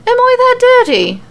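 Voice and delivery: offended shock, voice leaping up; disbelief. Acted. Becky told she needs a shower, indignant high disbelief. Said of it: "with even more disbelief".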